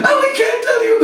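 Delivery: put-on playful boys refusing to tell; teasing cowherd boys. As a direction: tease him, keep the secret.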